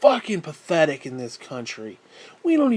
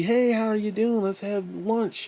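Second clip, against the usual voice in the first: higher, sing-song mock friendliness; mock friendly; 6 semitones higher than usual. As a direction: sweetly fake greeting, slowing on lunch. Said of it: "I'm not going in there to be".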